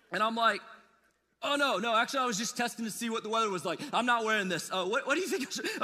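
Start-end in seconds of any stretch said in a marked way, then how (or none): 1.4-5.8 flustered backpedaling. Retold or imitated. Husband caught by wife, flustered and rushed. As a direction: scramble to cover yourself.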